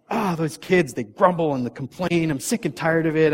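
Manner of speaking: acted-out fed-up parent; mock complaining. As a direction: grumble about the kids in mild exasperation. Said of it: "we start complaining about our kids".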